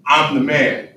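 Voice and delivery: bold declaration. Shown as a demonstration. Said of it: "Say it with me".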